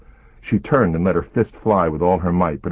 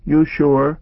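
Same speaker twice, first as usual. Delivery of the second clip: put-on high, worried child asking; little girl voice; 9 semitones higher, 6 dB louder than usual. A narrator's reading. Child character voice.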